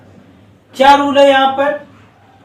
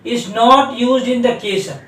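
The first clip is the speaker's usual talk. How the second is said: slow dictation; much slower than usual. Shown as a demonstration. Teacher dictating a grammar rule to students, very slowly. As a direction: read the rule in English very slowly. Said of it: "तो क्या है, देखो".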